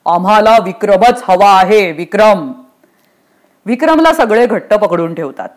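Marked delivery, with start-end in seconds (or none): 0.1-2.5 emphatic, imperious order; forceful ruler's insistence; insistent demand. Acted. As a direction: demand him by name with weight. Yamraj demands Vikram.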